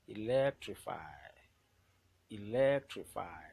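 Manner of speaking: Electrify with LEC very loud; teacher's demo of e-LEC-trify; stressed syllable. Shown as a demonstration. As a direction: punch LEC hard in Electrify, then drop. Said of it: "the one that will be pronounced louder".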